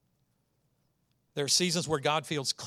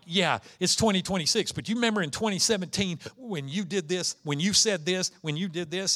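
higher, louder accusatory jab; accusing spouse; 4 semitones higher, 3 dB louder than usual. Acted. Spouse throwing an old fight back at partner, pointed and accusing.

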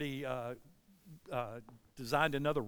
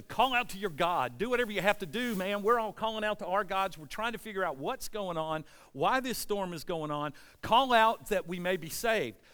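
raised, pressing voice of alarmed crew; urgent sailors; 3 semitones higher, 4 dB louder than usual. Retold or imitated. Sailors waking Jonah in the storm, urgent. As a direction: retell it as an urgent appeal.

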